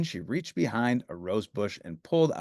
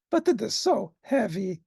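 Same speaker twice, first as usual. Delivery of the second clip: panting Grover; 10 semitones higher than usual. Acted. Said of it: "panted Grover".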